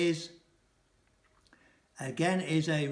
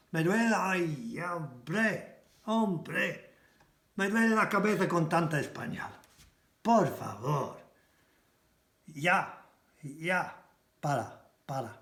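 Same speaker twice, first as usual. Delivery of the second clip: mock exasperation. Shown as a demonstration. Acted headache from too much Spanish.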